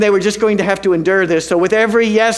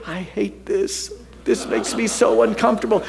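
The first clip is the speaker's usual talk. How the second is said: uneasy murmur; 5 dB quieter than usual. Retold or imitated. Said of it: "turning to Pastor Melody and saying".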